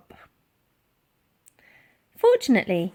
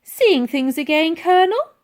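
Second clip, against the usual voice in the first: called out; 8 semitones higher, 8 dB louder than usual. Acted. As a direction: call back through the door. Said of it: "she called out".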